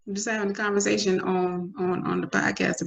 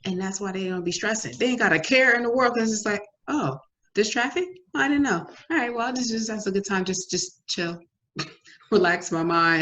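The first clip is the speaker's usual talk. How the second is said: carefree shrug; 4 semitones higher than usual. Retold or imitated. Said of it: "people who just go through life like".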